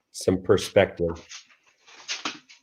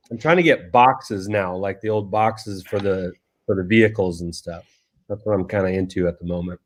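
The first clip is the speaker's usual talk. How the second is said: chewing popcorn; 2 semitones lower than usual. Real, not acted. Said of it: "Sorry, I'm eating my popcorn slash dinner".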